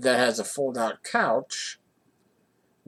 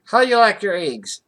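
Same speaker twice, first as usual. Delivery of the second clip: a loud, higher diner waitress call; waitress taking the order; 9 semitones higher, 10 dB louder than usual. Retold or imitated. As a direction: belt it like a busy waitress. Waitress voiced in a story.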